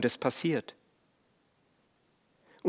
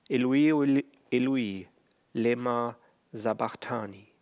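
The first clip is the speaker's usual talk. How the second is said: cried out; 2 semitones lower than usual. Retold or imitated. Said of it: "Um drei Uhr schrie Jesus laut".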